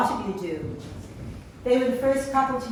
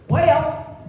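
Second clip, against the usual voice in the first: imitated Southern drawl, pitched up; bad Southern accent; 5 semitones higher, 6 dB louder than usual. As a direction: try a badly faked Southern accent. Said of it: "can't do a good accent".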